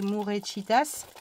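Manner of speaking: slow, half-hearted Spanish accent on Mourechitas; cheap Spanish accent. Shown as a demonstration. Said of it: "avec mon accent, euh, à deux balles".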